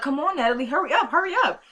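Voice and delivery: impatient yelling. Retold or imitated. Husband rushing Natalie on the phone, imitated impatient yell. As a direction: hurry her along in a pretend holler. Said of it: "Who is you yelling at?".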